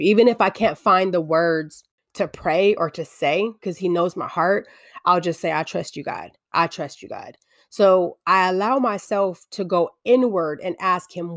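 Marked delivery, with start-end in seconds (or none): 5.5-7.4 murmured prayer. Retold or imitated. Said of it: "I'll whisper under my breath".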